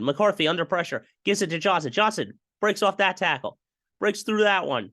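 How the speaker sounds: lightly voiced hyped announcer, pitch climbing; rising announcer hype, mostly in own voice; Gus Johnson impression. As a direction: build the call like a TV play-by-play man. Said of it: "my best Gus Johnson impression".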